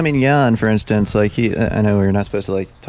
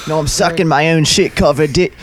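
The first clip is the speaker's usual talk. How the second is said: mock streamer voice; 6 semitones higher, 3 dB louder than usual. Mocking streamer on camera.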